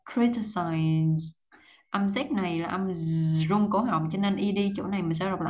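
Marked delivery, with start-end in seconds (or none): 0.0-1.2 "Criticize" spoken very slowly, ending on a falling "size"; teacher modelling the word slowly for students to repeat; slow demo. Shown as a demonstration. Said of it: "xuống giọng là size".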